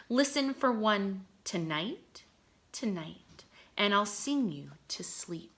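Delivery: put-on lilting poem reading for young children; poem read aloud. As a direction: read it like a gentle nature poem. Reads poem to class.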